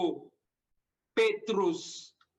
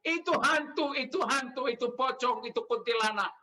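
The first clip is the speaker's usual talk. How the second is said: mock frightened cry; 2 semitones higher than usual. Preacher imitates listeners who mistake Jesus for a ghost, mock frightened cry. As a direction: act out a listener scared of ghosts. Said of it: "Anda teriak-teriak takut karena Yesus".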